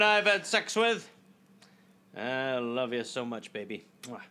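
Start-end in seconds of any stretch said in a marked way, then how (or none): 2.2-4.2 soft, murmured sweet nothings. Acted. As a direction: coo it to a lover, fading. Mock romantic murmur to partner.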